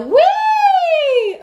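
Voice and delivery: a light, very high wee in head voice. Shown as a demonstration. Coach demonstrating a closed vowel to find head voice, very high. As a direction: float the wee up high and slow. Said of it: "those closed vowels".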